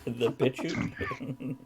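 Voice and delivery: The bitch shoot, slowly drawn out with weight on "bitch"; questioning, slow "bitch shoot"; shifted emphasis. Shown as a demonstration. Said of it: "where you put the emphasis".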